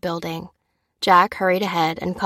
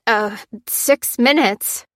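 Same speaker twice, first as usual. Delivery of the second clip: shocked; 4 semitones higher, 4 dB louder, slower than usual. A narrator's reading. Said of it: "had given way to shock".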